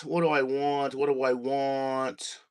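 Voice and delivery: low, soft searching murmur; talking to oneself. Real, not acted. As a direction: murmur it absently while hunting for something. Searching for music, talking to himself.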